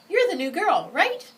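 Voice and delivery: put-on high, loud cheerful boy; a friendly boy greeting the new girl. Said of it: "he asked cheerfully".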